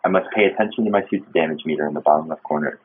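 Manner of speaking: low, soft log narration; captain's log reading. Acted. Player reading out the game's crash log, subdued narration.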